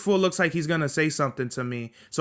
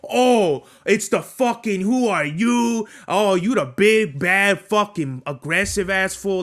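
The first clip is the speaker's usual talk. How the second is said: mocking imitation; slower than usual. Mocking the coworker's tantrum.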